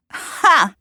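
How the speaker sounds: single high, loud "ha"; one mocking burst of laughter; scoffing chuckle. A narrator's reading. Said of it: "a chuckle escaping her lips".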